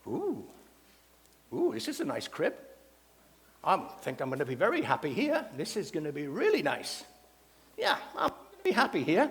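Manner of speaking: contented parrot character, swooping pitch at modest volume; talking parrot. Acted. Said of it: "and the parrot goes".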